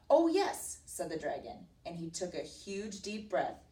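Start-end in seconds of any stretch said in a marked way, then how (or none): 0.1-0.8 high, loud storybook boast; boastful. Acted. Flattered dragon to princess, boasting. 1.8-3.6 slowing for dramatic effect; story narration. A narrator's reading. Teacher telling of the dragon's fire, narrating dramatically.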